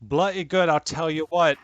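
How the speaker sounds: put-on twang it like a good ol' boy; Southern accent. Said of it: "You hit Southern real hard".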